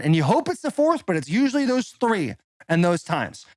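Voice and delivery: emphatic, swinging sales-pitch delivery; ad read. Acted. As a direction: sell it with exaggerated, punchy emphasis. Recorded host-style ad read with story.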